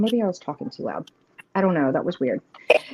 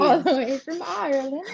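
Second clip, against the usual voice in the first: put-on higher-pitched, not-quite-Irish accent; badly faked Irish accent; mock Irish accent; 5 semitones higher than usual. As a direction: toss in a playful, off-target Irish lilt. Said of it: "That was not my Irish accent".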